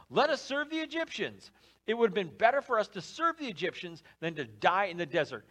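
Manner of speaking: mild mock panic at Moses; panicked complaint.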